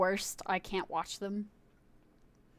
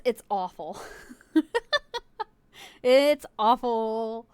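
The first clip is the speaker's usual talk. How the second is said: slow, loud laughing it's awful; 8 dB louder, slower than usual. Real, not acted. Streamer cracking up at a meme, laughing it out. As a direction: laugh it out in mock horror.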